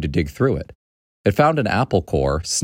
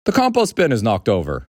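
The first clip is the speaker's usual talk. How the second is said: higher-pitched, mildly irritated complaint; annoyed dad; 5 semitones higher than usual. Acted. Dad finding the compost bin knocked over, mildly annoyed. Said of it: "It sounded annoyed".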